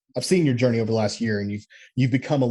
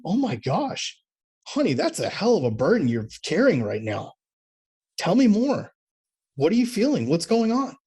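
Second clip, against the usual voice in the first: a touch of mock tender husband, pitched up; loving husband; 5 semitones higher than usual. Husband comforting his upset wife, lightly mocked tenderness. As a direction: gently imitate the ideal caring reply. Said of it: "Instead of loving her and going".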